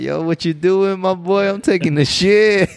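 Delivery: high-pitched, drawn-out playful protest; mock indignant comeback. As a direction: whine it upward as a joking challenge. Acting out a suggested comeback.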